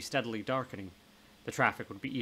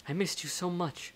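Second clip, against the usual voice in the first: high, tender voice of reunion; heartfelt affection; 7 semitones higher than usual. Acted. Ghost to the friend she came back for, heartfelt affection. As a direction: let the fondness lift the pitch.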